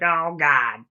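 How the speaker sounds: sudden loud, high "oh God"; a loud, high burst of alarm; mock dismay. Pucci sees her scared.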